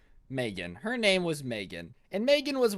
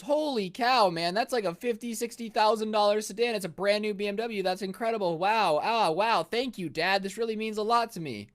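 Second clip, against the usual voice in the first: higher-pitched mock amazement; imagined grateful reaction; 5 semitones higher than usual. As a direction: gush in pretend awe at a gift. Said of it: "you would think Megan goes".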